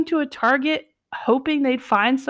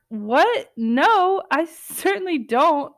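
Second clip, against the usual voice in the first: surprised denial; 5 semitones higher, slower than usual. Retold or imitated.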